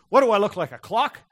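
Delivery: angry retort. Retold or imitated. Stranger annoyed at being asked the time, angry loud snap. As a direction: bark it back like an annoyed stranger. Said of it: "he just looks at me so angry".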